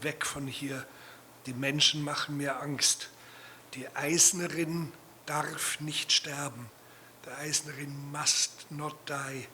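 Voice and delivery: quiet, measured German reading; incantatory reading. Acted. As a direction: read it like a solemn incantation. Reads own German text aloud.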